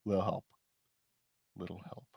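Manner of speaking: very soft, feeble mock call for help; mock feeble yell. Co-host reading lips on a silent video, mock feeble yell. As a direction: imitate a yell at barely any volume. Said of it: "knows exactly what was yelled".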